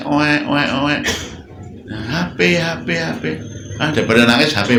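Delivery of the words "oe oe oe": light imitation of a baby's wail; a hint of a wailing baby; mock baby crying. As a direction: play the crying child lightly. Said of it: "anaknya nangis".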